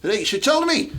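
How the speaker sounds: a mock Scottish foreman's sharp questioning; Scottish accent. The boss asks his binman about today's plan, in a hammed-up Scottish accent. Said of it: "Go and do that accent again".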